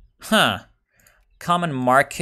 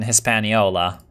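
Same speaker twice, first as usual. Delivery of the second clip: Hispaniola said the American way; Anglicized "Hispaniola" in an American accent. Shown as a demonstration. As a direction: say Hispaniola with plain American sounds. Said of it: "saying this in an American accent".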